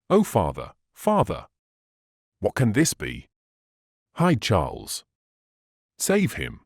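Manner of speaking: a daughter panics at the knock; terrified plea. A narrator's reading. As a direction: beg the father in sudden terror. Blow struck on the door.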